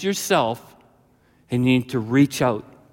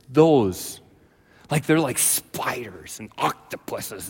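normal talking voice

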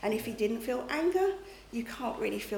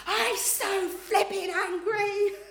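higher, louder, slow laughing mock shout; retold angry shout; 9 semitones higher, 5 dB louder, much slower than usual. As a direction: replay the outburst half-laughing, very slowly. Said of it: "I shouted and I said".

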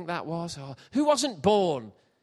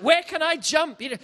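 panicked thoughts; 11 semitones higher, 5 dB louder than usual. Retold or imitated. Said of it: "I'm trying to think".

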